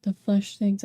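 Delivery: talking through hiccups; speaking with hiccups; hiccuping. Real, not acted. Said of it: "I keep up hiccuping".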